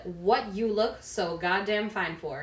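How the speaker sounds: flat, slow, word-by-word reading like a robot; robotic read. Real, not acted. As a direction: read it out with no feeling at all. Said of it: "like a robot".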